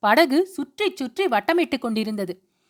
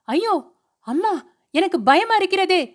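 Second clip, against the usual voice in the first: high, panicky wail of fear; terrified young wife crying for her mother; frightened cry; 6 semitones higher than usual. A narrator's reading. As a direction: cry out in terror, close to sobbing. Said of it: "கூச்சலிட்டு விட்டு விம்மத் தொடங்கினாள்".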